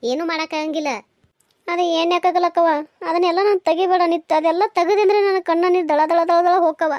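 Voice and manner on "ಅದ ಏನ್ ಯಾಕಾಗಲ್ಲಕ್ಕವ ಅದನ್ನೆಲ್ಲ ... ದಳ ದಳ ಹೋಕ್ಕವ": loud, distressed pleading; upset protest. Acted. Daughter begging mother to drop the subject, upset. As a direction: plead loudly not to reopen the hurt.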